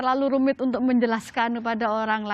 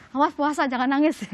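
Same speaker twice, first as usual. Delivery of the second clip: mock motherly warning, slightly raised; lightly acted scolding mother; 3 semitones higher, 4 dB louder than usual. Mother warning her fighting child not to cry while fasting, lightly acted scolding. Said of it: "mungkin ibu-ibu ya sering gitu ya".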